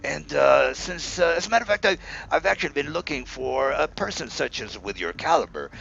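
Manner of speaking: butter up the heroes with a high, eager voice; fawning merchant. Acted. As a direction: shopkeeper flattering the city's heroes, lightly voiced and eager.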